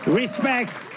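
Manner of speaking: high, comically unthreatening robber; sing-song Italian-accented stick-up, not scary at all; Super Mario. Acted. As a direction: try to menace in a high cartoon voice. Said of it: "you sound like Super Mario".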